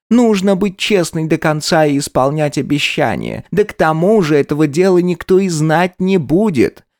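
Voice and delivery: cloying aunt persuading the maid; sugary honeyed voice. A narrator's reading. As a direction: sweet-talk the girl into it. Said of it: "умильно слащавым голосом".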